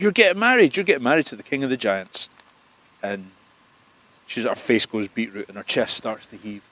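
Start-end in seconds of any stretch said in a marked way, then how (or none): 0.0-2.3 gleeful repeat. Acted. Loki repeats the news.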